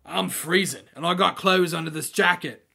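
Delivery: lightly voiced gang leader grumbling about cold; a hint of a complaining thug. Gang leader complains to the priest of the cold, lightly voiced thug.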